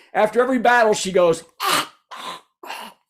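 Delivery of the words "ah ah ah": mock out-of-breath panting, fading away; hammed-up exhausted gasps, each weaker; winded gasps. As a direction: gasp softly as if worn out from fighting. Older heroine winded after every battle.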